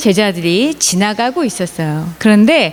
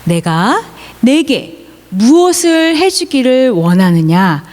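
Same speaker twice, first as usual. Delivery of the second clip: Jesus asking; slower than usual. Acted. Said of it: "예수님이 바디메오에게 물으셨어요".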